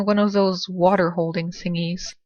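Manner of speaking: usual speaking voice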